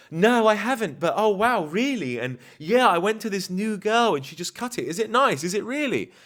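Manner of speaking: high, loud mock-female gushing; excited woman. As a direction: imitate a thrilled, flattered girlfriend. Voicing a flattered woman's reply.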